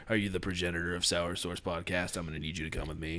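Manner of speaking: flat, low, quick monotone voice; deadpan government agent. Pretend. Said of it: "Just in a monotone voice".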